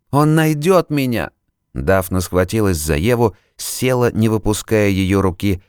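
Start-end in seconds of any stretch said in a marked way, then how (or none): 0.1-1.3 hysterical fear. Acted. Terrified patient clutching Eve.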